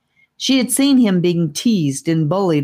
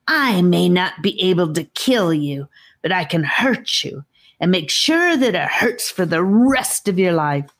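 a hint of a sneering snake voice; lightly voiced threatening snake. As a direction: menace him, not too big.

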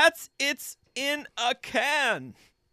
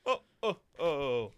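jolly Santa Claus. Pretend. Reviewer reading a five-star review, as a jolly Santa. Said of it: "I'm gonna do Chad Sloan first".

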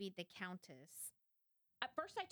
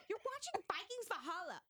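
higher, teasing; mock husband retort; 12 semitones higher, 3 dB louder than usual. Husband calling out her research excuse, teasing higher. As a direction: call out the excuse. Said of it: "It's like".

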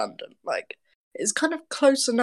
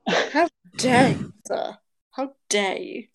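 1 mock offended; 2 semitones higher than usual.

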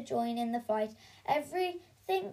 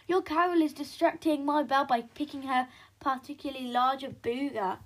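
1 mock bawl; faster than usual. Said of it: "bawled Belinda".

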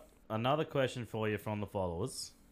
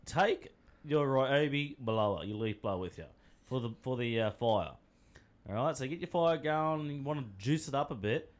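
mock campers' tip; 3 semitones higher than usual. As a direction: pitch it like a playful how-to for campers. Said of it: "a handy tip for you campers".

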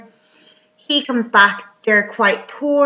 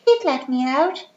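put-on child's voice; 5 semitones higher than usual. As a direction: plead lightly like a small child. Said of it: "like, this child's voice".

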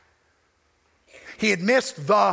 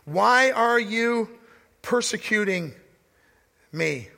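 compassionate; slower than usual. Retold or imitated. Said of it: "the voice is filled with compassion and love".

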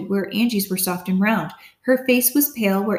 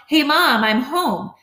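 calling out; 6 semitones higher, 3 dB louder, slower than usual. A narrator's reading. Calling out on arriving home.

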